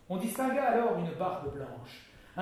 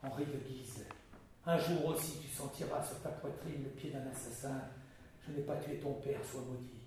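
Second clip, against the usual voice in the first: low, much softer dying curse; a curse from beyond the grave, hushed; sepulchral voice; 3 semitones lower, 7 dB quieter than usual. Acted. Dying admiral cursing the duke in a sepulchral voice. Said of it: "d'une voix sépulcrale".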